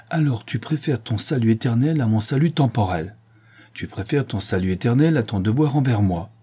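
indignant reproach with swinging intonation. Acted. Horace reproaching his nurse for her oath, indignant. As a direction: throw the accusation back, mildly outraged. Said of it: "indigné".

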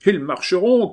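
high, loud shout from the crowd; one side of a mob yelling. A narrator's reading. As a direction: shout it out defiantly, pitched well up. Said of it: "criaient les uns".

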